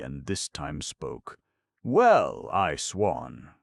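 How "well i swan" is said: high, loud burst of surprise; astonished exclamation. Acted. Aunt stunned at hearing her name, loud astonished cry. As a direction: let the surprise jump out. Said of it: "was what she said".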